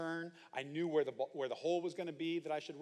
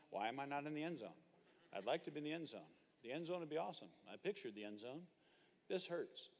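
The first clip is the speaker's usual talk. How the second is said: softer, dazed mumble after a hard hit; dazed mumbling; 7 dB quieter than usual. Retold or imitated. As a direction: mumble it like you've just been flattened. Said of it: "I'm mumbling".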